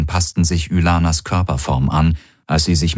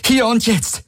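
threatening; 12 semitones higher than usual. A narrator's reading. Threatening at gunpoint.

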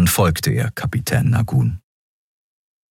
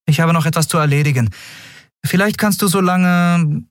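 higher-voiced captain giving orders; captain's higher, businesslike voice; 12 semitones higher than usual. A narrator's reading. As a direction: play a practical captain sorting things out. Captain hands out chores.

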